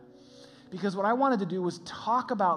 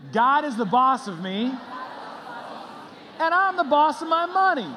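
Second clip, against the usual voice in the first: louder and higher, full conviction; say it like you mean it; 8 semitones higher, 7 dB louder than usual. Shown as a demonstration. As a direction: declare it like you truly mean it. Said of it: "now say it like you mean it".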